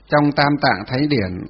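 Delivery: very slow, measured dictation; dictating. Real, not acted. Teacher repeats a phrase for note-takers, dictating. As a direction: stretch each word out so students can write.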